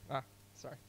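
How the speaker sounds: normal talking voice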